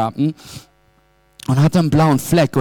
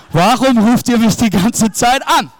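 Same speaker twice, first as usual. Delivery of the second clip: annoyed son; 5 semitones higher than usual. Retold or imitated. Son annoyed at parents' calls.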